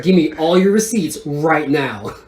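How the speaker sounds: playfully bossy retold demand, laughing; half-laughing, lay down the law over a trifle; mock upset. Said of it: "made me so upset".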